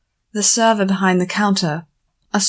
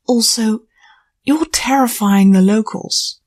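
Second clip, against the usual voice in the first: whispering; 3 semitones higher, 4 dB louder than usual. A narrator's reading. Lyra murmurs a warning.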